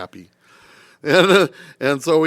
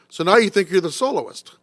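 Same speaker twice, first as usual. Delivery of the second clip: higher, mocking jab; sarcastic conductor; 6 semitones higher than usual. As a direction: sneer it like a scornful conductor. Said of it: "He goes".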